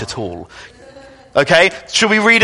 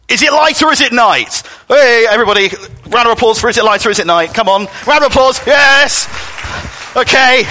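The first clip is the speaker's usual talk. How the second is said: game show host; 6 semitones higher than usual. Pretend. Game show intro for children.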